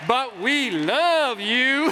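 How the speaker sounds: very drawn-out, swooping reassurance; mock sweetness. Comic placating the women after scolding, drawn-out sweetness. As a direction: stretch it out to win them back.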